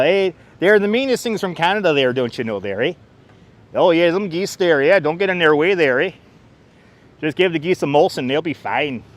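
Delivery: playful Canadian "there, eh" lilt; lightly put-on Canadian accent; mock Canadian accent. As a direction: ham up the Canadian accent a little. Mock Canadian talk about geese.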